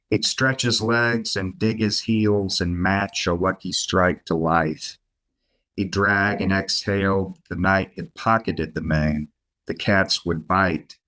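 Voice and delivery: measured, unhurried poetry reading; poem reading. Acted. Poet reads his poem Lures to the podcast host, measured and unhurried. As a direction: read it like a poet at a reading, each line weighed.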